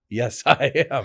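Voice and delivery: slow yes, I am with a laugh in the middle; laughing repeat. Shown as a demonstration. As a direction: answer the compliment again, chuckling and drawn out. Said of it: "Man, you're really present".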